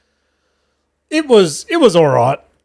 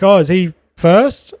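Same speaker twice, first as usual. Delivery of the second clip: retold call to the sound guy, higher and slow; imitating an MC checking across the room; mock calling out; 5 semitones higher, slower than usual. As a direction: call out a question without real volume. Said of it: "he's yelled out to the sound guy".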